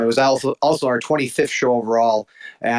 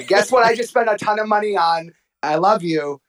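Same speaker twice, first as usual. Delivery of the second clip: laughing mock confession; 7 semitones higher than usual. Retells luring his wife.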